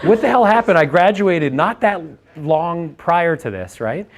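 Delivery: high, loud, incredulous rant with a laugh in it; half-laughing fury at how it all went wrong; pissed-off outburst. Retold or imitated. Recalling the night he lay awake furious, a high loud laughing rant. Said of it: "I was super pissed".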